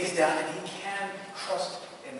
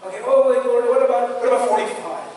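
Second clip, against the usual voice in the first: eager, climbing pleas, much higher and louder; a raised, excited bargaining voice; Abraham bargaining with God; 8 semitones higher, 12 dB louder, faster than usual. Acted. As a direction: haggle hopefully, number by number. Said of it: "this long discourse with, uh, that Abraham has".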